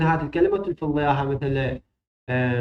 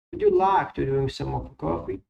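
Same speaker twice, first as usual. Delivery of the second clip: slow model sentence; much slower than usual. Shown as a demonstration. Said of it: "هنا silent".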